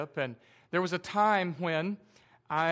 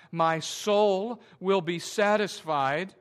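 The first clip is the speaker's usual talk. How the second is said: slow quoted verse; 3 dB louder, slower than usual. Shown as a demonstration. Quoting verse in sermon.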